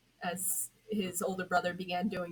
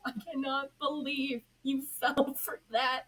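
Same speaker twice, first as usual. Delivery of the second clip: higher, louder, slow teasing spirit voice; mocking spirit; 7 semitones higher, 5 dB louder, slower than usual. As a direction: gloat over the fooled hero. Teasing being mocks Red Hood.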